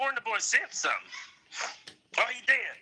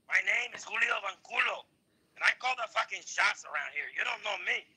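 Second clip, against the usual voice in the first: put-on Mexican accent, cocky; mock Mexican character introducing himself grandly; swaggering Mexican caricature voice; boastful Mexican character; 3 semitones lower than usual. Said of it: "I am the number one Mexican time traveler".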